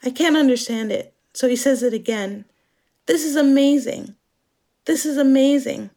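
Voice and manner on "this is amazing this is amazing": breathy excited British moan; moaning in pleasure. Retold or imitated. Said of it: "Kinnock moans something".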